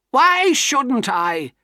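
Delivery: high, loud and very slow wild cry. Acted. Miss Havisham defying Pip, wild cry. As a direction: drag the words out in a wild outburst. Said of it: "she cried wildly".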